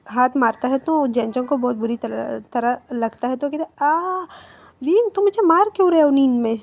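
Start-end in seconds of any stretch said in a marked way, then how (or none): 3.8-6.6 high, louder pained protest; startled sleepy cry. Acted. Boy woken by a slap to his friend: startled high cry.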